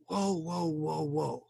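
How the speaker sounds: calm them down gently; calming whoa. Shown as a demonstration. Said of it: "your left hand says".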